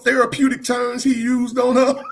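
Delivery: cracking up at his own joke; laughing. Real, not acted.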